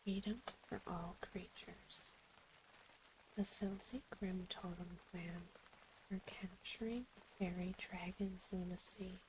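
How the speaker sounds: reading quest text in a whisper. Acted. Reads quest text aloud in whisper.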